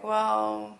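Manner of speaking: mildly deflated, subdued quote. Acted. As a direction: say it with a touch of dejection, softly trailing down. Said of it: "not as excited anymore".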